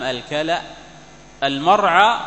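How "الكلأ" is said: الكلأ said al-kalaa, rising at the end; pronunciation demo. Shown as a demonstration. Teacher repeats الكلأ for the class, carefully voweled. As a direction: voice every sound of الكلأ, k and l voweled. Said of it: "بهمزة في آخره وتحريك الكاف واللام".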